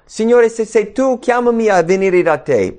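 high-pitched acted appeal; calling out. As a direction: call out eagerly across the water. Voices Peter calling to Jesus.

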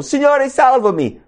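high, urgent shout for rescue; acted desperate scream for saving; Peter's cry. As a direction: cry out for help in panic. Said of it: "Pietro grida dicendo".

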